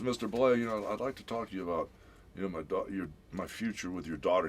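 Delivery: halting, tripping over the words; nervous stuttering. Retold or imitated. Nervous boyfriend asks girlfriend's father about their future, stuttering. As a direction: stammer out a mock-nervous request. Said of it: "He was stuttering just like that".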